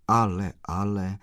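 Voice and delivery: mildly sympathetic; gentle, understated concern; compassionate. Acted. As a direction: offer a touch of comfort. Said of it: "řekl soucitně pan Kolbaba".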